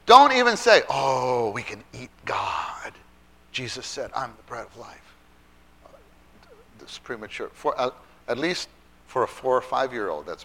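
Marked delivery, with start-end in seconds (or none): 0.9-5.2 slow, hushed mock wonder; mock awe. Showing teachers what not to say to little ones, hushed mock awe. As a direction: breathe it slowly as if awestruck.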